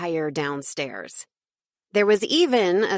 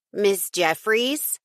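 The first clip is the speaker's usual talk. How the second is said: slow rising call, higher; 3 semitones higher, slower than usual. Acted. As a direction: call out her name questioningly. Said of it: "I called out".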